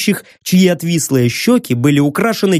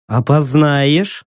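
suspicious; much slower than usual. Acted. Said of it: "прищурилась Кассандра".

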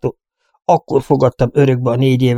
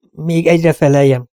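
curt; 5 semitones higher than usual. Acted. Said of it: "szakította félbe nyersen".

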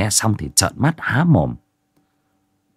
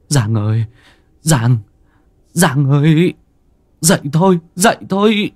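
rising panic, climbing higher and louder; shaking his wife awake in fright; panicked calling; 6 semitones higher, 3 dB louder than usual. A narrator's reading. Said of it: "Anh Tín vội vàng lay vợ".

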